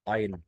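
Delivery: اينر said with "ah" for the ER ending; vocalised final R. Shown as a demonstration. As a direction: drop the R and end اينر on a vowel. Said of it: "الاي ار في اخر الجمله بنطقها اه".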